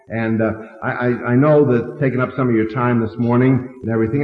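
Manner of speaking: lightly voiced mock-humble gratitude; a touch of shy thanks, rushing at the end; humble closing. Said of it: "you always want to close this way".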